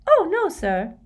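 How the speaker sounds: loud, high, cheerful squeak; cheery high-pitched house-elf; happy squeaky elf. A narrator's reading. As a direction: squeak it happily. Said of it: "said Dobby happily".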